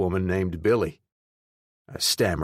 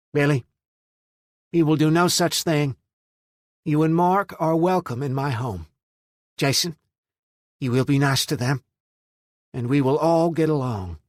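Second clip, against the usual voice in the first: higher, louder stern insistence; firm command; 7 semitones higher, 4 dB louder than usual. A narrator's reading. Mother ordering her son and guest to get along, firm and loud. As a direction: put your foot down.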